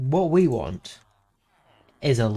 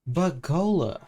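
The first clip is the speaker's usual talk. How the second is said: higher, whiny nerd voice; nerdy voice; 6 semitones higher than usual. Pretend. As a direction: play a know-it-all nerd objecting. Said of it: "I hear you say in a slightly nerdish voice".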